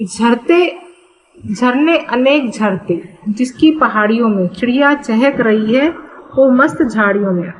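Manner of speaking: measured verse reading with small pauses; poem recitation. Acted. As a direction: recite the lines of a Hindi poem.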